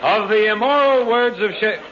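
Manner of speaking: pompous mock oration. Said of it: "stick to the script".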